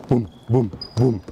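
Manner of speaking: soft even boum boum beats; rhythmic thumping sounds. Shown as a demonstration. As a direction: tap out the landing rhythm. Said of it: "écoute, t'entends?". (imitation de rebonds réguliers)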